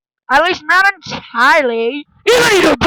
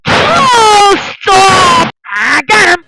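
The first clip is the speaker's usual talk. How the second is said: excited struggling shout; 4 semitones higher, slower than usual. Acted. Scuffle, grabbing someone.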